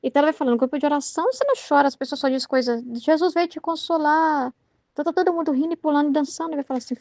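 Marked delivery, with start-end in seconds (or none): 0.5-4.5 consoling friend. Retold or imitated. Prayer-group friend telling her not to cry, lightly imitated consoling. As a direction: mildly imitate someone soothing, stretching the last phrase.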